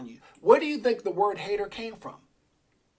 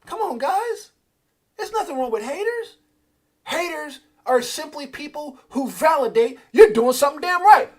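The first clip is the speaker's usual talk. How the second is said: higher, louder preaching; rally the crowd hard; fired up; 10 semitones higher, 9 dB louder than usual. Real, not acted. Preaching to viewers about haters, fired up.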